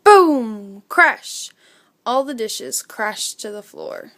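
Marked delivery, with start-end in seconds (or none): 0.0-0.8 a big booming crash sound, loud. A narrator's reading. Narrator booms the crash of falling dishes. Sound effects opening story. 0.9-1.5 a sharp, higher crash sound; loud crash. A narrator's reading. Narrator acts out the dishes crashing down. Sound effects opening story.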